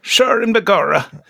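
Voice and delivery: lightly put-on Jamaican lilt; hammy Jamaican accent slipping in. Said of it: "why are you Jamaican?".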